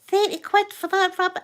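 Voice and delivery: high, loud incredulous question; mock outrage, pitched right up; appalled at price. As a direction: re-enact sticker shock. Retells outrage at shop prices.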